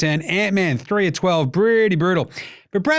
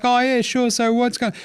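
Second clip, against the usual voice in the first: high, put-on second voice; Tyrese Halliburton's weird voice; 9 semitones higher than usual. Host imitates player's other voice in interview, high and weird. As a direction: keep it pitched way up, unlike yourself. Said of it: "Like, completely different".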